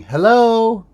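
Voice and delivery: distant voice calling hello twice; shouted hello. Retold or imitated. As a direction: call out hello through a closed door. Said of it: "I hear somebody shouting".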